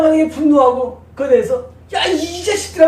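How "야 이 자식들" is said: higher, crying-edged outburst; imitating an angry outburst at enemies; mock angry curse. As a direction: spit out a half-mocking curse. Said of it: "하면서 하는 거예요".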